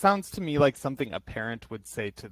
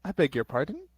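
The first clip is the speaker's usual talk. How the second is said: mock offended; 6 semitones higher than usual. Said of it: "as a joke, people might be like".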